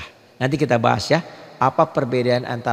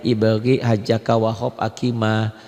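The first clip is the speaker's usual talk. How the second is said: letter groups recited slowly and lower; 3 semitones lower than usual. Shown as a demonstration. Teacher reciting the qomariah letters for students, slowly. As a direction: take "ibagi, hajaka, wahab, akima" slowly, group by group. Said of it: "Nanti pelan-pelan".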